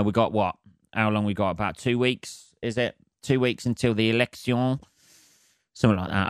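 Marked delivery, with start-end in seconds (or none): 3.2-4.8 lightly put-on French accent on election. Counting down to the election, mock French accent. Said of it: "I said that in a French accent".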